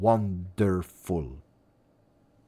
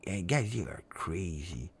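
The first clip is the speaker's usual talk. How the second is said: whisper; 2 semitones lower, 8 dB quieter than usual. Real, not acted. Teasing chat about scary animals.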